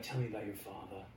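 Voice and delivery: hushed, probing question; a hint of a gentle therapist; soft therapist voice. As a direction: lean in and coax it out quietly. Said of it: "and then he's like".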